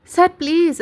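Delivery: loud, high cry of please; shouting plea. A narrator's reading. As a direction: shout it out, recoiling. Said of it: "Vasu గట్టిగా అరుస్తూ".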